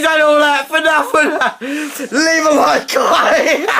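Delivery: giggling through the outro; laughing. Real, not acted. Host laughing at failed stunt.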